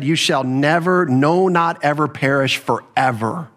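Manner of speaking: slow, deliberate weight on "never, no, not ever"; emphatic. Shown as a demonstration. Preacher giving the congregation a literal translation, emphatic. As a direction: spell out "never", "no, not ever" and "forever" slowly and firmly. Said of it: "See how emphatic that is".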